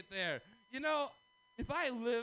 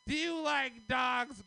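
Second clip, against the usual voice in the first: slow, suspicious question; serious, probing; 2 semitones higher, slower than usual. Retold or imitated. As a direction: ask it like a test. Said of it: "Now it's like".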